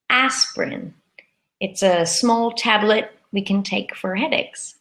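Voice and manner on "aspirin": aspirin said as ASP-rin, two syllables. Shown as a demonstration. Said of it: "is aspirin".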